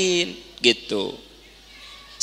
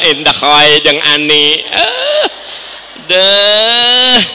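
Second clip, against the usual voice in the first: loud, sharp scolding wife; wife scolding her husband for coming home late; nagging wife; 3 semitones lower, 5 dB louder, much slower than usual. Pretend. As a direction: berate your husband at the door. Harsh nagging wife acted out.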